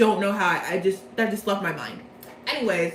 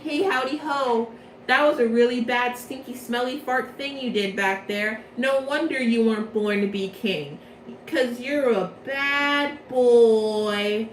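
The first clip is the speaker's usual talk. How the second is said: scolding guardian. Retold or imitated. Lilia scolding Leona for the trampling, mock teasing scold. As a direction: tease him like a cheery old guardian. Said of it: "And he's like".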